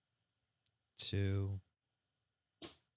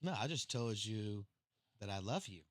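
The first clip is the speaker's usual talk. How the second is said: sweet-talking; 10 semitones lower, 17 dB quieter than usual. Real, not acted. Sweet-talking wife after her scolding.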